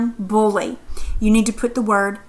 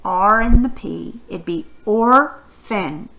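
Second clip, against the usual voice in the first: slow syllable split; slower than usual. Shown as a demonstration. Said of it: "where would the word orphan ... split".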